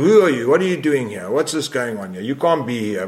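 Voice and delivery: retold hysterical outburst; imitating a hysterical guy. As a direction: play the angry scooter guy demanding answers, half acted. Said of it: "this hysterical guy comes up".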